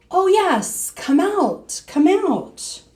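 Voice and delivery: high, distant call from outside; faraway calling. Acted. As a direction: lure her out from far away. Faraway voice calls her.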